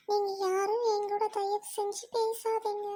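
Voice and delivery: slow, subdued and level; heavy-hearted, drawn-out words; sorrowful plea. Acted. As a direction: quietly beg them to stay away. Tearful girl pushes friends away.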